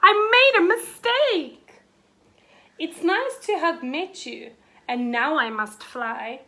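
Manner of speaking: flustered, high dragon apology; spluttered. A narrator's reading. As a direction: gabble an excuse to get away. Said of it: "he spluttered".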